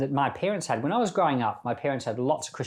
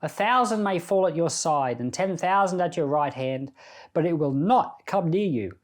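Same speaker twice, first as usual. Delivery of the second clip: measured, solemn reading of a psalm; scripture reading; 2 semitones higher than usual. Acted. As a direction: read the psalm aloud to the congregation with reverence. Reads Psalm 91 aloud.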